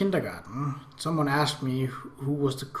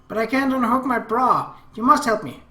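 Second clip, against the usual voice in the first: put-on higher, louder pleading girl; whiny little sister; 8 semitones higher, 7 dB louder than usual. Little sister begging brother to unhook her bra, higher girlish whine. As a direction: beg in a high girlish whine. Akemi begs help with bra.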